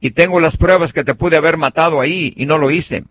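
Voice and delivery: high, loud call across the distance to the king. Retold or imitated. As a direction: shout it so the king hears from far away. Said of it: "le grita, le dice".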